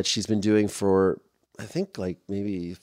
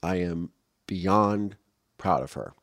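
slow and softer, choked up with pride; getting emotional; 2 semitones lower, 4 dB quieter, slower than usual. Real, not acted. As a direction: let the pride catch in the throat, slowly. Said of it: "I'm getting a little emotional".

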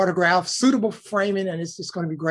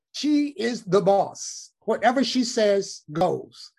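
slow, measured, gentle authority; lightly voiced calm statesman settling it; slow and deliberate, a hint of Mandela; imitating Mandela; 3 semitones higher, slower than usual. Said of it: "he said".

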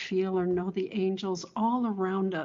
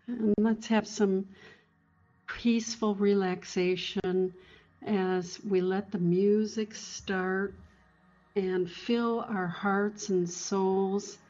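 guided meditation. Acted. Counting down into relaxation.

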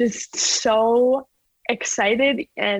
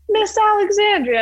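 imitating coach; 11 semitones higher, 4 dB louder than usual. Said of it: "my coach comes in".

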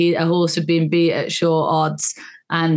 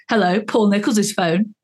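sassy phone greeting, slightly lifted; retold sassy pick-up; 3 semitones higher than usual. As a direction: answer the phone with a bit of sass. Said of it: "I answered it being all, like, sassy".

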